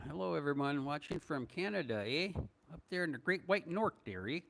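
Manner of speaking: playful put-on Canadian accent, eh at the ends; mock Canadian accent. Greeting Canadian viewers on the livestream in a light mock Canadian accent. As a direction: greet the Great White North in a hammed-up Canadian accent. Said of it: "No, I'm not. I'm not Canadian".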